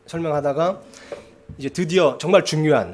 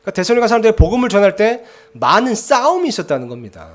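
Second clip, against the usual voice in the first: raised, emphatic sermon delivery; preaching; 3 semitones higher, 4 dB louder than usual. Acted. Pastor preaching to his church, loud and emphatic. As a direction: preach it out to the pews with force. Preacher expounds scripture to congregation.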